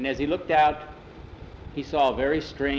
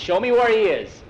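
loud, high, confident dismissal; booming captain's assurance; hearty sea captain; 7 semitones higher, 6 dB louder than usual. A narrator's reading. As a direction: brush it off like an old salt. Captain demands to see son.

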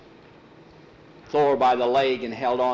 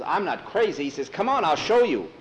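excited insisting; 5 semitones higher than usual. Acted. Cowhand insists he saw it.

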